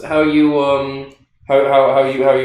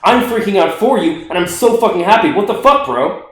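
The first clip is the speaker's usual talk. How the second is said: excited all caps text; 4 semitones higher than usual. Retold or imitated. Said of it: "I'm writing all this in caps".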